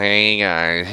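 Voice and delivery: exaggerated stuffy, nasal sick voice. Showing the nasal sound at the end of a cold: exaggerated nasal sick voice. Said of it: "where you got the nasally sound".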